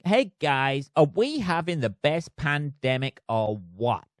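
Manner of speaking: put-on a deliberately awful American accent, lightly done; hammed-up American accent, barely shifted; bad American accent. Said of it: "he says in the worst American accent ever".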